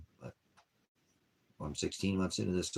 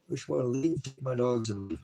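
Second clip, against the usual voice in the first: pleading, upset; 7 semitones higher, 4 dB louder than usual. Real, not acted. Continues anguished plea.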